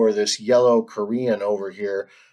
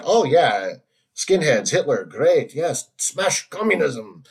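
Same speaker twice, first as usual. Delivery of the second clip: botched mock Korean accent; badly faked Korean accent, slowing at the end; wrong accent for a Korean; 4 semitones higher, slower than usual. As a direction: attempt a Korean accent and slip. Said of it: "Sorry, wrong accent".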